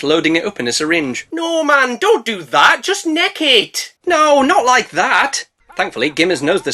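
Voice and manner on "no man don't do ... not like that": urgent pleading. Real, not acted. Narrator urging Gimli on.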